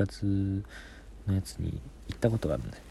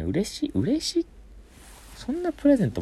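excited; 6 dB louder than usual. Real, not acted. Excited about presents.

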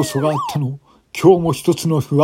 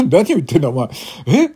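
lecturing officer; 7 semitones higher, 5 dB louder than usual. Acted. Officer lecturing drunk woman.

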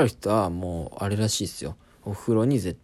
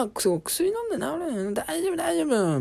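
put-on broken Japanese accent. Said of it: "この人片言で怪しい".

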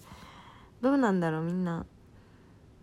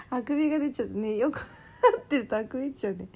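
yawning; 4 semitones higher, faster than usual. Real, not acted.

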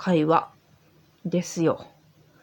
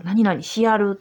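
Osaka dialect; slower than usual. Shown as a demonstration. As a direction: quote the Osaka dialect form しやる. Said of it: "大阪弁の一つなんですよ".

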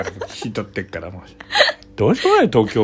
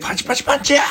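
higher comedy catchphrase shout; mock gag shout; 14 semitones higher, faster than usual. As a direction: yell it like a Yoshimoto gag. 吉本ギャグを叫ぶ. (吉本ギャグ風に高く叫ぶ)

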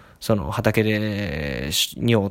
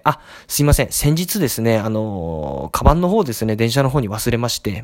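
imitating a routine, untroubled phone enquiry; lightly acted matter-of-fact politeness; businesslike, unbothered. Caller reporting a bag left on the train, unbothered businesslike tone. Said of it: "業務的に何にもへこんでない感じで".

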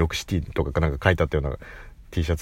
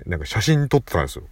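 ordinary delivery

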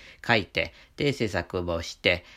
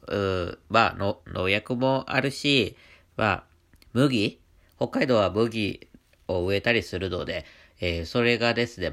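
stuffy nose from allergies; talking through a blocked nose; nasal voice. Real, not acted. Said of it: "このような鼻声になっております".

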